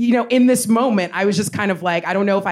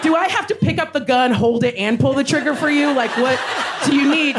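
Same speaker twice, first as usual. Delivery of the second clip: exasperated outrage; 6 semitones higher than usual. Retold or imitated. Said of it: "I was like".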